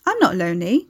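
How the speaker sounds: mildly firm, defensive denial; insistent denial. Acted. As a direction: insist a little too readily. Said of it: "Carrie insisted, lying".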